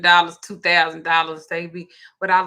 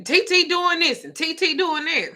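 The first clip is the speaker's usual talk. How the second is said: mimicking daughter; 9 semitones higher than usual. Daughter's complaint quoted on phone.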